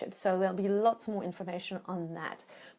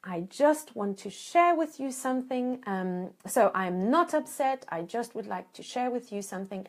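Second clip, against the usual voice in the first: gentle request. Shown as a demonstration. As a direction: invite them in gently. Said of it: "And so you say".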